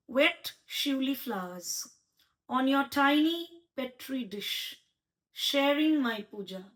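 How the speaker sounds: slow, measured recital of a haiku; slow haiku recital to the poet; poem reading. Shown as a demonstration. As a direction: read it slowly, letting each line breathe. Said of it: "I would like to read".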